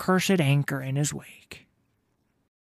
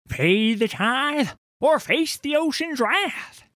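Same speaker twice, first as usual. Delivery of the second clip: ominous warning; 14 semitones higher, 4 dB louder, slower than usual. Acted. Sailor warns of the tithe.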